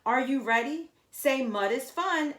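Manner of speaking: crowd-warming MC call. Acted. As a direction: hype up the kids at the start. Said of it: "M C Justin called out".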